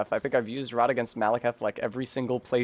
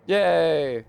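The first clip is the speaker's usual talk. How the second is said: excited cheer; 6 semitones higher, 6 dB louder than usual. Real, not acted. Cheering a success.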